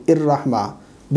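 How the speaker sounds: الرحمن started with a hamza, "ir-rahma"; mispronounced join. Shown as a demonstration. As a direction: open الرحمن on a glottal stop instead of an h. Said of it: "ہا کو ہمزہ پڑھتے ہیں".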